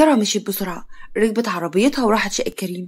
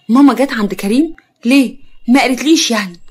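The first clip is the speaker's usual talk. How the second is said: louder, startled questioning; shocked; 2 semitones higher, 6 dB louder than usual. Acted. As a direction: react with shocked disbelief. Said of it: "هي يارا بصدمة".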